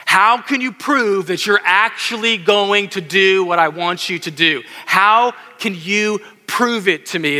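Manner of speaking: slow, drawn-out demand for proof; pleading Zechariah. Retold or imitated. Preacher voicing Zechariah pressing God, slow and lightly pleading. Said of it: "That's what he basically saying".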